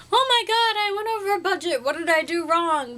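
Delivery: high-pitched mock dismay; panicked shopper. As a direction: imitate a distressed over-budget shopper. Mimicking shoppers who went over budget.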